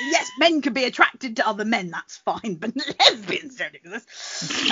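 lightly voiced disbelieving queen; Queen Victoria. Speaker ridiculing the queen's logic, mock incredulous. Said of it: "Queen Victoria said that".

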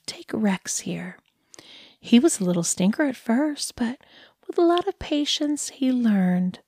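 a lightly voiced cooing dog owner; condescending dog lady. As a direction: talk down to him like a pet, all sweetness.

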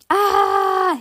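high loud scream; boy screaming while holding on. A narrator's reading. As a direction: let out a sharp scream. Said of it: "he screamed".

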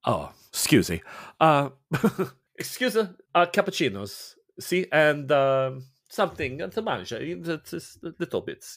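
lightly voiced Italian priest, courteous and mild; a hint of a kindly Italian father greeting a guest. The priest greeting Faye, lightly Italian and courteous.

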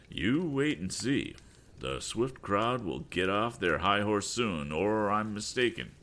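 slow, knowing father's threat; a hint of a smug scheming father; slow gloating. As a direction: savor the coming revenge.

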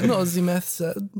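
David Cage. Pretend. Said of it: "David Cage? Is that you?".

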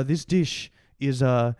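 slow, halting attempt at a French accent; botched French accent. TV chef presenting an absurd dish, botched French accent. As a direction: fumble through a mock French accent. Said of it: "That's not a French voice".

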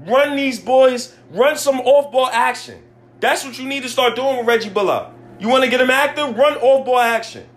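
high, insistent, exasperated demands; pissed-off rant. Real, not acted. Fan demanding off-ball action from the coach, pissed-off rant. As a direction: push each instruction out in frustration. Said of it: "I'm really pissed off with Tibbs".

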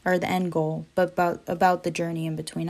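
stumbling, repeating words nervously; fumbling for words. Real, not acted. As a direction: trip over the words a bit. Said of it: "I'm stumbling over my words".

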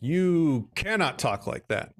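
put-on slow, emphatic scolding of a child; retold firm reprimand. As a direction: mimic a parent putting their foot down. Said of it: "they put a stop to that".

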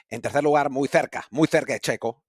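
Spain accent, "th" in "tercer" and "cerca"; Castilian Spanish accent. Shown as a demonstration. Host jokingly redoing the podium in the correct accent, Castilian Spanish. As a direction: put on a Castilian lisped c in "cerca". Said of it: "lo voy a decir con el acento".

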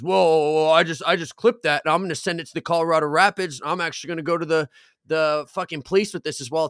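agitated threat. Retold or imitated. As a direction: imitate someone making heated threats. Retold viewer threatens to report him.

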